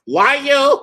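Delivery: high, loud cry of liar; loud accusation. Retold or imitated. Accusing the attorney in court, loud. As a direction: yell it across the courtroom. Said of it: "I was like".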